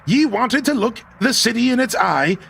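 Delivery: a hint of a hearty sea dog; scottish laird. Reads old sea captain's lines.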